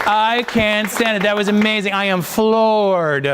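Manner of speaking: slow, drawn-out, high-pitched rave; amazed gushing. Real, not acted. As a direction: savour the praise, stretching the words. Coach gushing after first read.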